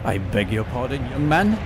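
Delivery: prim, scolding schoolmarm; prissy strict schoolteacher voice. Pretend. Scolding someone swearing in background.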